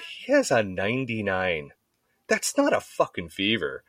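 slow, deliberate correction; mock indignant, word by word; emphatic rebuttal. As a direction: imitate a wife setting the doctor straight. Attorney wife rebuts the doctor.

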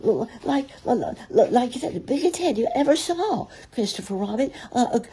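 high, squeaky, stuttering fluster; panicky stammer. A narrator's reading. Piglet describing the heffalump to Christopher Robin, frightened stammer. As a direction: trip over the words in breathless alarm.

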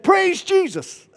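high, drawn-out loud praise; imitated exuberant command. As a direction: belt it out like a fiery prophet. Prophet demonstrates praise, acted.

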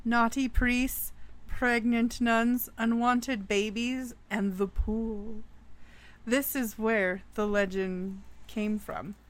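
storyteller voice, dramatic and measured; spooky story narration. A narrator's reading. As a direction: tell it like a campfire ghost story.

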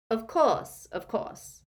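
lightly voiced, eager old man; a hint of a wheezy old wizard; high wheezy old wizard. A narrator's reading. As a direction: welcome him with a small wheeze. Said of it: "high-pitched, wheezy voice".

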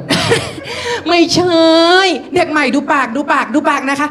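high, laughing bossy coaching; mocking schoolgirl. Girl tells new boy to watch her mouth, mocking.

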